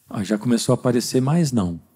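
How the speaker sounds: ordinary talk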